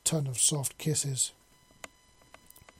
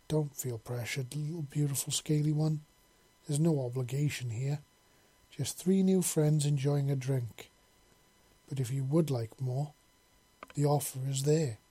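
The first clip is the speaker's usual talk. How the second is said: softly. Acted. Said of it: "she said softly".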